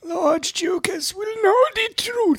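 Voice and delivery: high eerie whisper; ominous whisper. Pretend. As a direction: whisper it like a dark oracle. Spooky voice for mystery lord.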